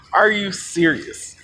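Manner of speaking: slow incredulous question; drawn-out disbelief. Retold or imitated.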